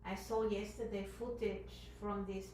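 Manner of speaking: speaking up to be heard. Real, not acted. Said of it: "can you speak a little louder".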